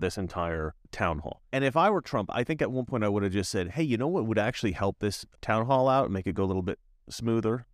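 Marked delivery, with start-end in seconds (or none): 3.7-7.6 mock-helpful suggestion, lightly sarcastic. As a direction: offer fake helpful advice with understated sarcasm. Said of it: "that kind of sarcasm".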